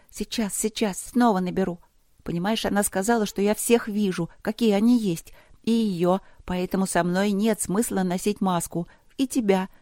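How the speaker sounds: lightly voiced girl, bustling and talkative; chatty young princess. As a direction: chatter on as a busy little princess. (суетливая болтливая девочка)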